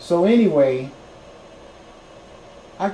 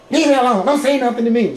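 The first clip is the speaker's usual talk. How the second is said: snapping; 7 semitones higher, 5 dB louder than usual. Retold or imitated. Girlfriend brushes him off.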